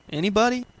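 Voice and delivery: rising, questioning anybody; questioning call. Real, not acted. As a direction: ask the audience with a lift. Host polls listeners, asks twice.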